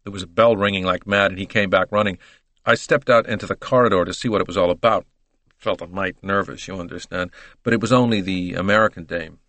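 lightly voiced American detective giving his account; casual witness with an American twang. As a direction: recount it like an American gumshoe.

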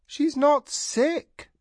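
high, slow, stress on not; firm. A narrator's reading. Tanar insisting to Tahanu, stressing not, high and slow. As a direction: lean hard on not, certain. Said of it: "Tanar said".

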